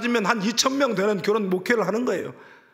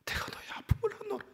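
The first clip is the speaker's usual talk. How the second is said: tender whisper; 13 semitones higher, 12 dB quieter than usual. Acted. The Lord comforting, voiced.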